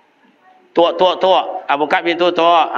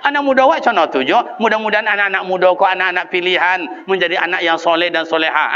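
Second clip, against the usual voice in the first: normal talking voice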